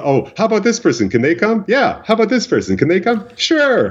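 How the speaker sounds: imitating Mama's excited questions; gushing Mama. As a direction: play an overexcited mom, pitch way up.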